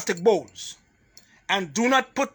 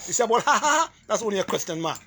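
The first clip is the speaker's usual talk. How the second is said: laughing; much faster than usual. Real, not acted. Laughing at her own joke.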